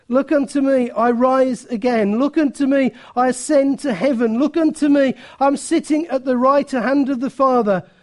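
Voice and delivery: lifted, insistent preacher's refrain; a touch of pulpit triumph; triumphant appeal. Acted. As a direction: proclaim it in rising, eager phrases. Preacher voices Christ risen, rising appeal.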